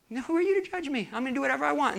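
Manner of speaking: high-pitched indignant retort; acted defiance. Proud king rebuffs men sent by God, defiant. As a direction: throw the warning back, proud and put out.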